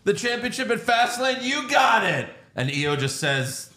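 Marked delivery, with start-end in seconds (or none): 0.0-2.3 high, put-upon challenge; Bayley. Retold or imitated. Wrestler pretending to understand her rival, high mock-indignant voice. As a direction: pitch it up like a wrestler's promo. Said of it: "And Bayley says".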